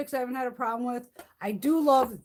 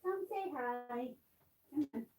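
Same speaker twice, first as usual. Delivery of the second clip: much softer, slow coaxing to a kitten; slow hushed coax; 11 dB quieter, slower than usual. Real, not acted. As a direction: draw it out quietly so the kitten comes.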